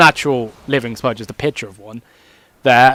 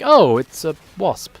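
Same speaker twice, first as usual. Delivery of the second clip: unbothered shrug; slower than usual. Retold or imitated. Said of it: "I can just sit there and be like".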